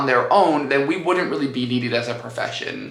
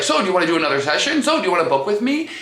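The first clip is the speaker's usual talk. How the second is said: pushy trainer; 3 semitones higher, much faster than usual. Retold or imitated. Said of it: "the personal trainer is like".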